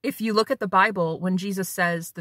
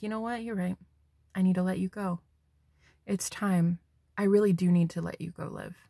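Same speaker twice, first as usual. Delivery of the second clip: soft, lightly voiced concession; imagined other person; 3 semitones lower, 5 dB quieter than usual. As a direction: quietly let go, as the other person. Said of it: "hearing them in your mind say something like".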